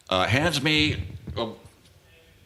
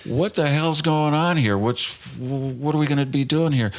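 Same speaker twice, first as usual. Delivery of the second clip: mildly higher, puzzled questioning; baffled inner thought; 4 semitones higher than usual. Retold or imitated. Storyteller recalls his own bewilderment at the back door, baffled. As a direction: voice a confused what-is-going-on thought. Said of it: "And I'm thinking".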